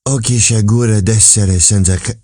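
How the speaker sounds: a sighing mutter under the breath, in Italian. Acted. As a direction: grumble it through your teeth like a lament. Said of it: "sighing and muttering between his teeth".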